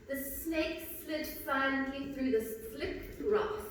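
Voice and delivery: "The snake slid silently through the slick grass" with every s drawn out and hissing. Shown as a demonstration. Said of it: "Listen to what this example sounds like".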